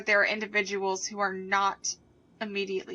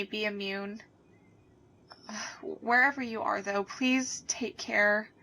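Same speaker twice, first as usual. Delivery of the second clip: sad pleading. Acted. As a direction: beg them gently to take care. Anchor breaks down, pleads.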